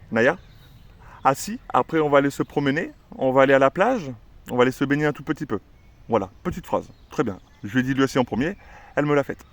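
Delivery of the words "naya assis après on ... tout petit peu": bright, singsong talk to the dog; cheerful to the dog. Shown as a demonstration. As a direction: chat happily to the dog about the walk. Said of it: "je vais mettre une petite phrase à Naya". (parler gaiement à la chienne de la promenade)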